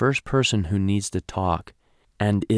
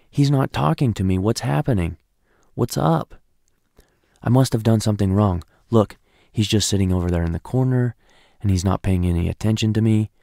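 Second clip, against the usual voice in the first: freaking out; 3 dB louder than usual. Retold or imitated. Wife worrying while husband sits silent, panicky rant. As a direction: talk yourself into a panic. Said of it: "she's freaking out".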